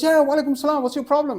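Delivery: high, loud, testy retort; irritated vendor. Retold or imitated. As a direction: act out a grudging greeting turned challenge. Acted quarrel, vendor snaps back.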